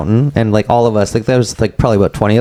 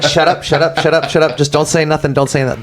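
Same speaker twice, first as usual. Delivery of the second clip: inner voice; 6 semitones higher than usual. Retold or imitated. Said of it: "in my head, I'm like".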